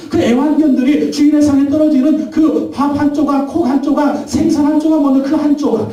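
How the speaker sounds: high, impassioned plea; pleading pulpit climax; fervent preaching. Acted. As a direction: pray it out with full fervor.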